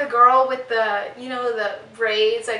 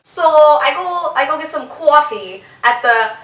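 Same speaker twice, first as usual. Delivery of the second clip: mock Boston accent.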